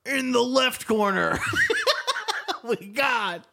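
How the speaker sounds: drawn-out ring announcer call; fight announcer. Pretend. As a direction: hype the fighters like a boxing MC. Announcing a fight between corners.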